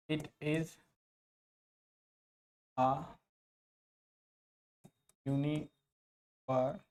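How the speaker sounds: "It is आ यूनिवर्सिटी" very slowly, long pauses between pieces; spaced-out teaching model of "यूनिवर्सिटी"; word-by-word demonstration. Shown as a demonstration. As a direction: dictate "यूनिवर्सिटी" piece by piece, yu-nee, va, tee. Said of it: "इसका pronunciation होता है यूनिवर्सिटी".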